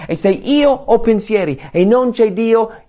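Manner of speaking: normal talking voice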